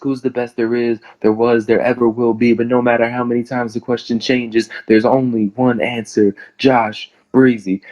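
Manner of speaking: reciting a wrestling promo with assurance; confident promo voice. Acted. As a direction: deliver it like a rehearsed wrestling catchphrase. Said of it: "only line I said with confidence".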